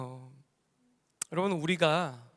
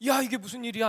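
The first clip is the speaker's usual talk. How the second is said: retold startled cry, pitched up; 4 semitones higher, faster than usual. Rich man seeing Satan at the door, startled. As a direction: act mildly taken aback. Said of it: "깜짝 놀라가지고".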